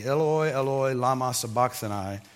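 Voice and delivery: loud cry. Retold or imitated. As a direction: call out the dying cry with some force. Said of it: "with a loud voice".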